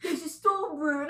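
hammed-up film-quote accent with a laugh; Dick Van Dyke impression. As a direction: misquote a movie line in a put-on accent. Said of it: "Dick Van Dyke is like".

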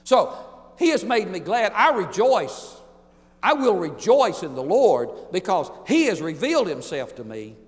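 rejoice out loud; preacher exulting in the Lord; joyful rejoicing. Real, not acted.

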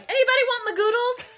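high sing-song offer. Retold or imitated. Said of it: "you're like".

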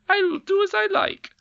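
high, loud sulky squeal; sulky retort. A narrator's reading. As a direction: sulk it back defiantly. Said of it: "retorted the Queen sulkily".

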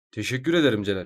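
flat robotic monotone; deadpan robot voice, no feeling; emotionless robot. Acted. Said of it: "Ben niye öyle robot gibi konuşuyorum".

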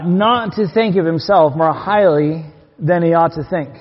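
measured, deliberate scripture reading; slow verse reading. Real, not acted. Preacher rereading the verse to his church, slow and deliberate. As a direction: read the verse out slowly, word by word.

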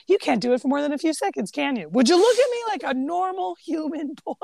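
imitating a fed-up uncle, rising on the plea; mock exasperated demand. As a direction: build from quick challenge to high pleading exasperation. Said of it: "And Uncle Martin's just like".

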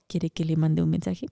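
low, soft teasing offer; hotline girl voice. Pretend. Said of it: "Paquita hace voz de chica hotline".

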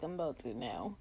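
low, breathy whisper through pain; strained whisper. Retold or imitated. Answering her brother mid-contraction, a pained whisper. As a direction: barely get the words out.

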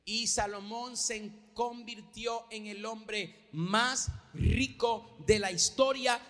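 slow, swelling from plain to loud; slow build to loud. Acted. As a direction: build each word up to a boom. Preacher builds to a climax.

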